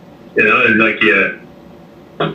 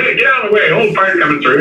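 gruff mock warning; 8 semitones higher, much faster than usual. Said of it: "I'll say".

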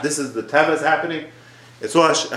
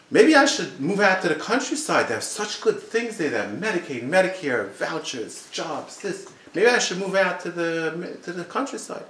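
musing son, higher and softer; lightly voiced son; 5 semitones higher, 4 dB quieter than usual. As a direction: float the idea softly, in a higher pitch. King's son voiced in a story.

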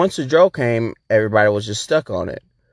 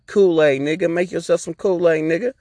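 friend's voice; 5 semitones higher than usual. Retold or imitated. Friend Joe's reply voiced.

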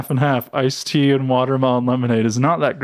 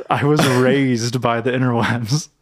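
breathy laughing whisper; slower than usual. Real, not acted. Laughing confession.

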